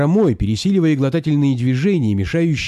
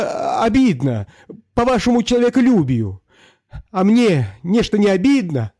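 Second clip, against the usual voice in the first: high reedy peasant voice; quavering falsetto; 6 semitones higher than usual. Acted. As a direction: plead in a high quaver to the master. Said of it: "дребезжащей фистулой". (мужик оправдывается перед барином высокой фистулой)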